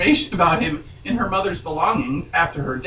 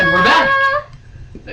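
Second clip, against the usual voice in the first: announcer voice; 6 dB louder, much slower than usual. Pretend. Announcer return.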